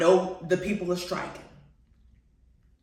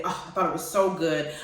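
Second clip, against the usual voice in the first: ordinary delivery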